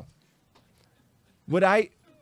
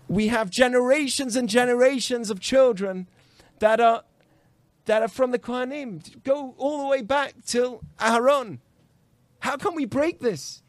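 retold distressed plea, pitched higher; imitated tearful plea; 4 semitones higher, 3 dB louder than usual. Crying man begs the rabbi about his family, imitated distress. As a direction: plead like an upset visitor, voice lifted. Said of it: "someone's knocking on my door, crying".

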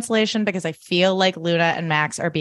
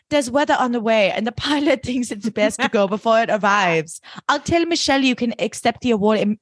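lightly voiced, a touch higher and poised; acted Helena; 3 semitones higher than usual. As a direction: play a composed socialite making excuses. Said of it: "Helena's like".

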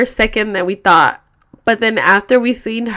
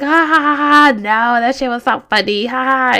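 imitated laughing friend; 4 semitones higher than usual.

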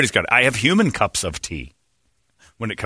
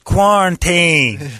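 high, loud, very slow hick twang; hick accent; 6 semitones higher, 5 dB louder, much slower than usual. Retold or imitated. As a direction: drag it out like an exaggerated hillbilly. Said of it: "pronouncing it like a hick".

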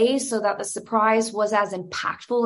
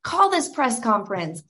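mock cheering; 2 semitones higher, slower than usual. Fan cheering at the press conference, excited. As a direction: cheer him on, voice jumping up.

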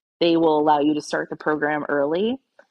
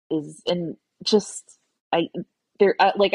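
halting, broken false starts; stumbling over words. Real, not acted. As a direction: grope for words, restarting as you go. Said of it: "I'm stumbling over my words".

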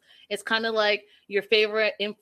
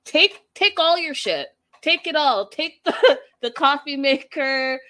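higher, louder mock-generous offer; sarcastic higher voice; sarcastic dismissal; 4 semitones higher, 5 dB louder than usual. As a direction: go on, take it all, sarcastically. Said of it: "She said".

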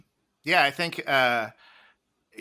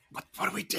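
panicked; 7 semitones higher, 10 dB quieter, faster than usual. Retold or imitated. Panicking after missed call.

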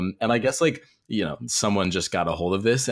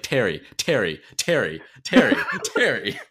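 calling Terry over and over through laughter; soothing an angry manager, laughing; laughing repeated calls; 2 semitones higher than usual. Retold or imitated. Umpire calming a ranting manager, laughing. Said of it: "Tom just like".

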